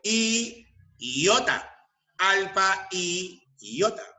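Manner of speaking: slow, long "y" before "iota"; stress on "y". Shown as a demonstration. Teacher giving the Greek letter example, "y" drawn out. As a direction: hold "y" apart from "iota". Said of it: "Por eso es correcto decir".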